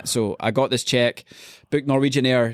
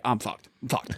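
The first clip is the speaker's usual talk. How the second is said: quietly resigned; 7 dB quieter than usual. Retold or imitated. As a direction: mutter it to yourself, sinking. Daunted watching the other dancers.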